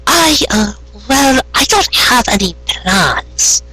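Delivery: high, slow, matter-of-fact pony voice; puzzled Carrot Top. Acted. Carrot Top answering Trixie, plainly puzzled. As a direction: state it as if obvious. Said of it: "as though the answer would have been obvious".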